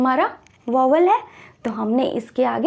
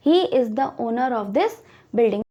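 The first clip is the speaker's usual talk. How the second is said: slow example read; 2 semitones lower, much slower than usual. Shown as a demonstration. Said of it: "teacher repeats example".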